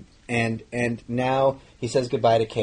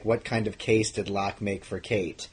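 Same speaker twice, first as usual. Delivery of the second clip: slow mock-stilted read; mocking scripted read. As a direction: parody the stiff script. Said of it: "when you read a sentence like".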